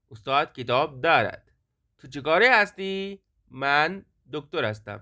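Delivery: slow, deliberate language-drill sentences; measured textbook reading, pausing between sentences; pronunciation model reading. Shown as a demonstration. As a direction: read each sentence slowly for learners to copy. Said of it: "سیدھے line سے پڑھوں گا".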